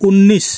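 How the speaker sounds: উনিশ as Hindi unnis, n held long; Hindi pronunciation. Shown as a demonstration. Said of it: "হিন্দিতে উনিশ".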